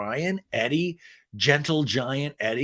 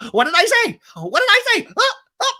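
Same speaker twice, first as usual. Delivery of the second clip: put-on drunk Vicky; 9 dB louder than usual. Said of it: "She's like".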